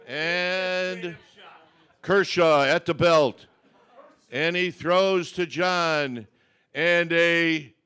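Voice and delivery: slow announcer play-by-play; home run call. Acted. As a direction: set up the pitch like a broadcaster. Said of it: "practice my home run call one time".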